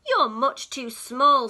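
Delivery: loud sharp retort; snapping. Acted. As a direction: snap dismissively as the cat. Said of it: "snapped the cat".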